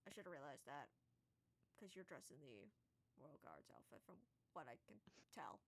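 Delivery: a tired giant squinting at the guard's outfit. Acted. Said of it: "He's just like".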